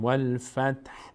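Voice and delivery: والفتح with the final ح faintly voiced, slow; example word. Shown as a demonstration. Teacher recalls والفتح as the model, slowly. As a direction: let the ح of والفتح just be heard. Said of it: "مثل کلمهٔ والفتح".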